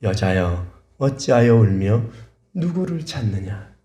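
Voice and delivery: slow, hushed, measured question; the Lord. Retold or imitated. The Lord comes to those weeping, slow and measured. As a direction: ask gravely, taking each phrase slowly. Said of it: "주님이 그런 사람들에게 찾아오시는".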